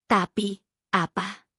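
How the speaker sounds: snapping. A narrator's reading. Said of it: "Hesti membentak".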